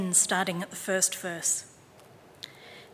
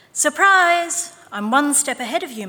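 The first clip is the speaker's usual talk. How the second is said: put-on excited little boy; 6 semitones higher, 8 dB louder than usual. A narrator's reading. Boy voiced in story.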